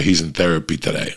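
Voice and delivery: ordinary talk, nothing marked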